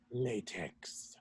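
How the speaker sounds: breathy unvoiced whisper of one word; dramatic whisper. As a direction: whisper it like a secret.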